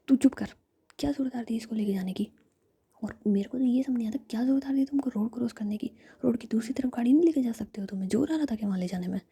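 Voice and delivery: a hint of angry big sister, hushed and loud at the end; whispered scolding. Jiya snapping at injured Ruhi, whispered angry scolding. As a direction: scold her in a harsh whisper.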